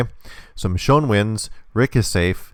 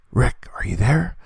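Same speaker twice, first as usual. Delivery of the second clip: higher mock call with questioning rise; 4 semitones higher than usual. Michonne trying the next column, acted calling out. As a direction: act out calling for a friend. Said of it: "She says".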